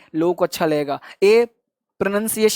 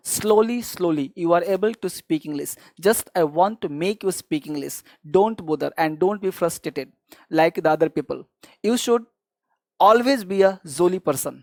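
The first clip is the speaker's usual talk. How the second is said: reassuring; 3 semitones lower, 4 dB quieter, much slower than usual. Real, not acted. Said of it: "softer English encouragement".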